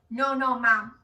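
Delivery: put-on loud frowning toddler command; toddler ordering mom. Toddler tells his mom to go sit, loud and bossy. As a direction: bark it like a bossy little kid. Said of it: "frowned his eyebrows, and went".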